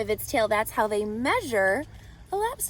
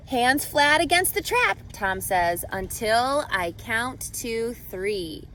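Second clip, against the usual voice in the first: storybook read-aloud with lively rhythm; reading to children. A narrator's reading. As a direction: read it like a picture book to a class. Reading picture book to class.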